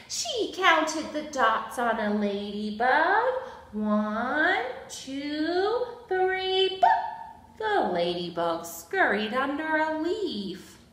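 slow, emphatic picture-book narration; reading to children. A narrator's reading. Storyteller introduces Abigail's love of counting, reading to children. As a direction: read it to small children, stretching key words.

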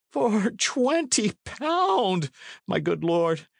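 put-on very high, slow, drawn-out old man's wail; aghast cry. A narrator's reading. Condall aghast at the knight's demand, high cry. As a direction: echo the sum in high-pitched dismay. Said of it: "cried Condall".

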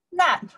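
"Nan" said high and rising, second tone; teacher modelling "Nan" with a rising second tone. Shown as a demonstration. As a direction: sing "Nan" upward like a question. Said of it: "Yes, I pronounce".

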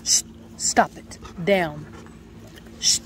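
sharp whispered command; whisper yelling. Real, not acted. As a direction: hiss it under your breath. Hushed command to the dogs.

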